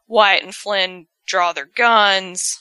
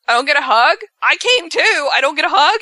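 high, louder whiny complaint; mock whine; 10 semitones higher, 5 dB louder than usual. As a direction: plead for a hug like a sulky kid. Flynn whining for a hug.

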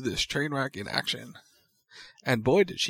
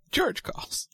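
laughing; 13 semitones higher than usual. Real, not acted. Laughing at the timing.

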